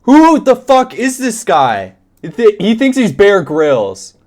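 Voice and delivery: loud incredulous rant at the video; incredulous outburst. Real, not acted. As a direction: blurt it out in shocked disbelief. Outraged reaction to survivor story.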